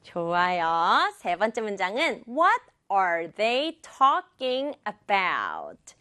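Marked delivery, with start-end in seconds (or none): 2.3-6.0 very slow, evenly spaced words. Shown as a demonstration. Teacher introducing sentence three, slow word by word. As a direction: spell out "What are they talking about" word by word.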